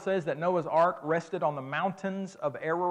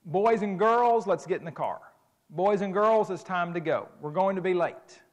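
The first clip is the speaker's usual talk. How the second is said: put-on parent calling kids; 4 dB louder than usual. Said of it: "this kind of statement made in my house".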